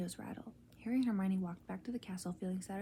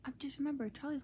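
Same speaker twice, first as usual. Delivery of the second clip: rising panicked cry; 4 semitones higher than usual. Acted. Ron panics in bed.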